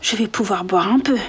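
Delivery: thinking aloud. Acted. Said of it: "pensa Georges".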